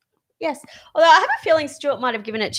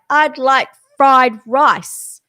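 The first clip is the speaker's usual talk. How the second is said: pidgin English; 3 semitones higher, 6 dB louder, much slower than usual. Retold or imitated. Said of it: "Why am I talking pidgin English?".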